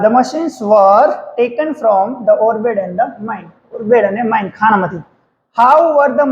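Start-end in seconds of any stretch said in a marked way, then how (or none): 0.0-3.5 slow dictation. Shown as a demonstration. Teacher dictates answer slowly.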